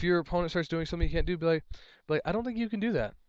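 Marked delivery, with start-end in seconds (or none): 2.2-3.1 polite, higher and light; said nicely. Shown as a demonstration. Player politely tells opponent the move isn't allowed, nicely. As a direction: ask it kindly, no edge. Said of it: "say it nicely".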